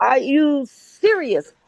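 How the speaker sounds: slow, stretched "Are you serious?" with weight on "you"; drawn-out disbelief. Retold or imitated. Retelling her reply to the doubter, slow mock disbelief. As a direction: drag it out, mock amazed. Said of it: "I'm like".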